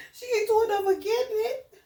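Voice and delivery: helpless laughter watching the cat; laughing hard. Real, not acted. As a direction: laugh through the words, almost crying. Cat catches mouse live.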